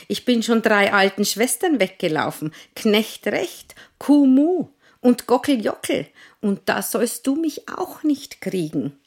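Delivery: schnell und laut gerufen; rufend. Acted. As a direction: hastig davonrufen. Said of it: "rief der Pfannkuchen". (schneller Ruf)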